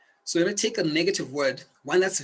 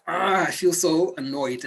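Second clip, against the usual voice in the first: mildly annoyed; 2 semitones higher, 3 dB louder, slower than usual. Shown as a demonstration.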